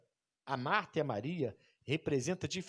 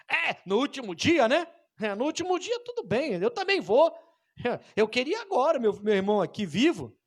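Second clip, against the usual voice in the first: whiny, higher, louder complaint; complaining cry; 7 semitones higher, 5 dB louder than usual. Retold or imitated. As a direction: Martha pleading and grumbling through tears. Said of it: "Não é uma palavra agora de murmuração". (queixa chorosa e aguda)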